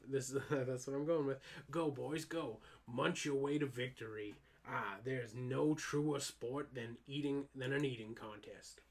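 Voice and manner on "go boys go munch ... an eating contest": coach voice. Acted. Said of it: "which voice we did for the".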